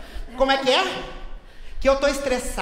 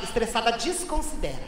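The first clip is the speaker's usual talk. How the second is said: suppressed; 6 semitones lower, 8 dB quieter than usual. Acted. Insisting she's not stressed.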